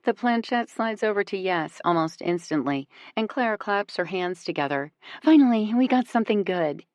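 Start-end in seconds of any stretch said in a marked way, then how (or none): 5.2-6.8 bright, bubbly and thrilled; giddy. A narrator's reading. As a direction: gush it out happily. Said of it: "she says giddily".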